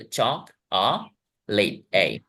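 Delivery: चॉक then आ, लेट then ए, separately; isolated vowels. Shown as a demonstration. Teacher pointing out two vowel sounds, चॉक-आ, लेट-ए. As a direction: follow each syllable, चॉक and लेट, with its bare vowel. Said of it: "दो वेवल sounds हैं".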